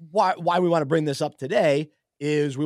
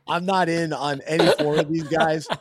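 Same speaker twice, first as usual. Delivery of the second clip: laughing; 4 dB louder than usual. Real, not acted. Laughs at his own joke.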